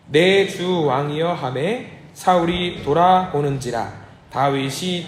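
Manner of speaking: slow, measured group reading; steady liturgical recitation; scripture reading. Acted. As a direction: read the verse slowly in unison. Congregation reads scripture aloud together.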